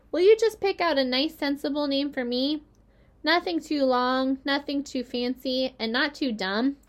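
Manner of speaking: a hint of a baby spider; small spider voice. Third spider speaks.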